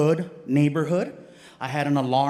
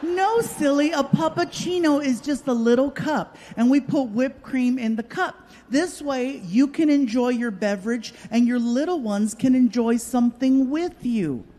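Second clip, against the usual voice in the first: sweet barista; 5 semitones higher than usual. Retold or imitated. Barista explains puppuccino.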